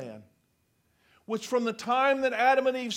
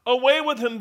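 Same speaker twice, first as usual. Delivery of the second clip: louder yell of an angry crowd; 4 semitones higher, 8 dB louder than usual. Acted. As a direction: shout him down. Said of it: "they yelled".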